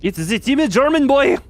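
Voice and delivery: high, loud and proud; excited announcement. Acted. Streamer proudly introducing his timid German boy, high and loud. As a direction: present him like a star.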